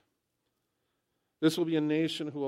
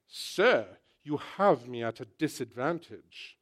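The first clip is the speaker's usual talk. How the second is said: lightly voiced English TV character; formal reply in an English accent; 6 dB louder, slower than usual. English drama character answering a stranger, mild English accent. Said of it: "then that great line".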